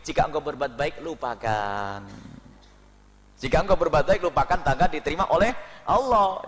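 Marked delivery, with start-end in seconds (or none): 0.1-2.0 soft, slow lowered quote; quoted wise saying. Retold or imitated. Preacher quotes Luqman Hakim's advice softly and slowly. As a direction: let lupakan fall away slowly. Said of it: "dikatakan oleh Luqman Hakim".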